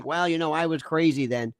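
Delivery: lightly voiced, low and sheepish admission; imitated excuse-maker. Ex-prosecutor voices Russell's admission, low, lightly mocking. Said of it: "you're basically saying".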